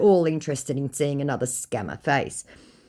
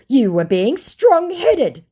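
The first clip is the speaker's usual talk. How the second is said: slow mock scammer; 10 semitones higher, 6 dB louder, much slower than usual.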